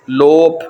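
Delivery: لوپ slowly, ending on a clear p; careful demo. Shown as a demonstration. Teacher repeating German Lob slowly for students. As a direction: draw out لوپ with a crisp p. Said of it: "فریز، لوپ".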